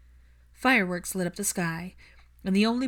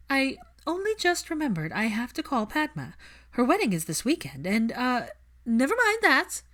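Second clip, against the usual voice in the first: a cornered witch babbling, voice climbing high; flustered panic; 6 semitones higher than usual. Acted. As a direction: scramble for an excuse and lose it. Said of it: "growing look of horror on Hermione's face".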